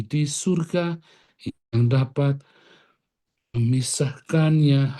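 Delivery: slow prayerful address. Acted. Prayerful words addressed to God.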